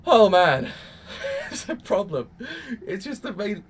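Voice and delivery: loud oh man into a high laugh; exasperated laugh. Real, not acted. Reacting to Subaru, an exasperated laugh. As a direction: laugh it off helplessly.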